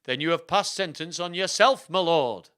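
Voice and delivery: spring the trap on the accused lord; theatrical royal accusation; accusing king. Acted.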